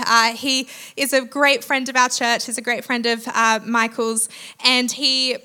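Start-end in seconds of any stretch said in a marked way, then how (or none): none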